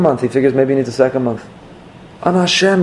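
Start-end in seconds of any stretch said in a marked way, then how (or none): 2.2-2.8 mock scream. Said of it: "he's screaming".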